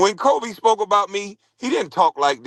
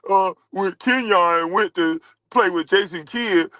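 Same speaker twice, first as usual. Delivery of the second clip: mocking Tracy McGrady; 3 semitones higher than usual. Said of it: "now imagine Kwame Brown saying that".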